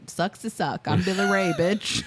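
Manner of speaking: put-on Southern accent. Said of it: "the thickest Southern accent ever".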